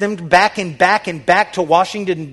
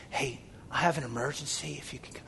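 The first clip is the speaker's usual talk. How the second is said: mock casual; 3 semitones lower, 15 dB quieter, faster than usual. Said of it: "They don't just say".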